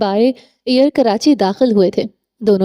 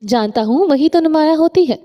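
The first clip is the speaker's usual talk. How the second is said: a touch of bitterness, pitched higher; bitter cut-in; 5 semitones higher than usual. Acted. A man bitterly cutting off the woman praising his colour, mildly. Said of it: "وہ تلخی سے اس کی بات کاٹ گیا تھا".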